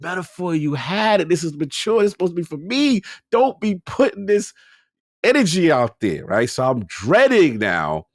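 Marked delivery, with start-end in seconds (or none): 0.0-6.2 retold exasperated protest. Gamer objecting to a cutesy character, exasperated. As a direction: plead with the game in hammed-up disbelief.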